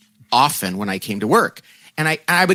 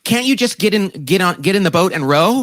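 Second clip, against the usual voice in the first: higher, impatient mock push-back from a frustrated coworker; 5 semitones higher than usual. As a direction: play the colleague who just wants to row. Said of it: "they found it threatening or, like, frustrating".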